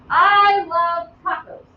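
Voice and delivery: slow, even statement read; declarative example. Shown as a demonstration. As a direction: say it as a plain fact, slowly. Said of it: "That's a declarative sentence".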